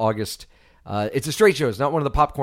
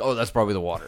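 laughing; 5 semitones lower, faster than usual. Retold or imitated. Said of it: "And you're like".

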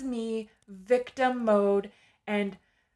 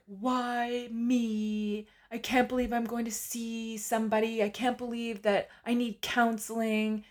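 mock bawling. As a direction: whine lightly as if crying in the car. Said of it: "I'm bawling my eyes out".

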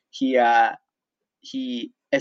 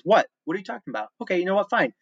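mock teacher irritation, pitched up; higher, exasperated retold scolding; aggressive teacher, imitated; 9 semitones higher, 3 dB louder than usual. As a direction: act out a teacher cornering the class. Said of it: "he stomped in really aggressive in a terrible mood".

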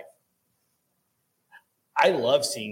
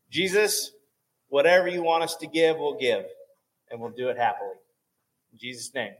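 short offering prayer; 3 semitones higher, 3 dB louder than usual. Real, not acted. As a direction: call out to Jesus, then ease down.

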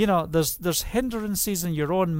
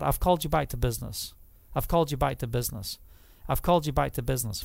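God's voice; 3 semitones lower, much faster than usual. Retold or imitated. God's voice repeated in story.

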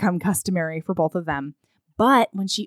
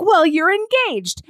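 flustered fumble; 10 semitones higher, 4 dB louder than usual. Retold or imitated. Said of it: "uncle sort of fumbles around".

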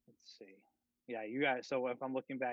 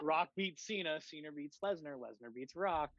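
higher, laughing through the words; 3 semitones higher than usual. Real, not acted. Cracking up at own rock-paper-scissors joke, laughing. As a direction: get it out through real laughter.

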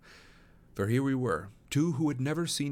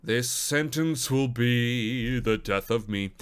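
exasperated; 2 semitones higher, 5 dB louder, slower than usual. Real, not acted. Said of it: "narrator's frustrated aside".

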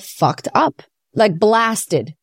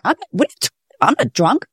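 fake indignant denial; 6 semitones higher than usual. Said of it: "You did it so well".

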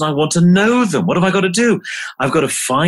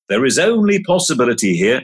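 faster, flowing repeat with rising end; quicker repeat; faster than usual. Shown as a demonstration. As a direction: run through it lightly, lifting at the end. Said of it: "here's a mantra or two".

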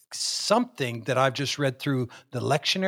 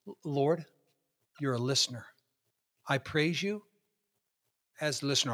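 soft breath prayer; 5 dB quieter than usual. Shown as a demonstration. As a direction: breathe the words out gently. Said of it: "I'll breathe in".

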